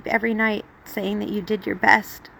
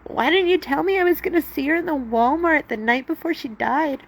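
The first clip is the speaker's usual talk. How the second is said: mad at God; 6 semitones higher than usual. Retold or imitated. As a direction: cry out at God in anger. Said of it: "mad at God".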